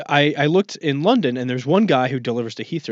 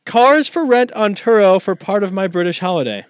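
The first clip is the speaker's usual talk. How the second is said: grand title read; 6 semitones higher, 5 dB louder than usual. Pretend. Announcing the episode title.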